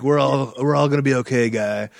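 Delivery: lightly voiced surfer-movie hero; a hint of a movie-star voice, dropping at the end; casual mock reassurance in a put-on voice; Keanu Reeves. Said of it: "I don't know why I'm doing that voice".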